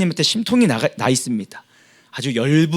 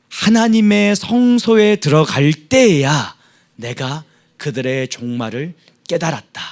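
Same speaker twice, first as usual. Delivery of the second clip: slow scripture reading; 2 semitones lower than usual. Acted. Reading verse seventeen slowly.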